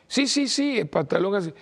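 put-on high, breezy young boy's voice; altar boy voice. Altar boy answers the priest about torn jeans, high kid voice. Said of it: "era uno de los monaguillos".

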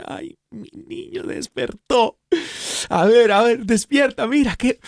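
the Holy Spirit coos at a sleepy listener, high and doting; tender loving Holy Spirit. Acted. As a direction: coo lovingly over a child just waking up. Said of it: "con esa pureza y ese amor te mira y dice".

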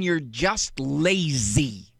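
slowly weighing "You're just lazy" word by word; drawn-out skeptical quote of "You're just lazy"; slow, mulling quote. Shown as a demonstration. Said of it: "what does that mean".

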